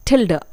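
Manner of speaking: टिल्डा said clearly as "til-da"; pronunciation demo. Shown as a demonstration. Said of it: "इसे हम बोलते हैं".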